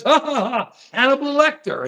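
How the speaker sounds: put-on "ha ha" carried into the name; imitated crowd laugh. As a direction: imitate an amused crowd cackling along. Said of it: "Everybody goes".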